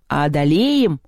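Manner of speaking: drawn-out, cautious question; mildly apprehensive little doubt; wary. A narrator's reading. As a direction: ask it warily. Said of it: "опасливо спросил столовой".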